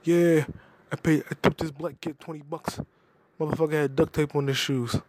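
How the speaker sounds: gruff old mobster, lightly voiced; a hint of an old New Jersey mob boss; Uncle Junior impression. Mocking Uncle Junior's story about the tip, lightly gruff. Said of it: "Uncle Junior was like".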